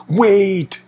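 a high, drawn-out worried wail. Acted. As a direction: cry it out in sudden alarm. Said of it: "he wailed".

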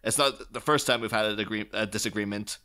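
lightly voiced mock politeness with a sarcastic edge; a hint of a snide businessman. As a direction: read it as fake courtesy, dripping irony. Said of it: "he kind of sarcastically says".

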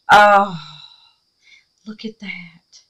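a hushed look at that; awed whisper. Real, not acted. Showing viewers her craft, whispering in awe. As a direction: breathe it out in wonder.

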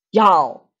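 breathy whispered y'all; whispered aside. Retold or imitated. Adults not wanting to scare the children, whispered. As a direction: hiss it so the kids won't hear.

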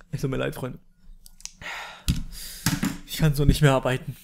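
mock mourning. Surgeon telling friends the patient died, mock solemn grief.

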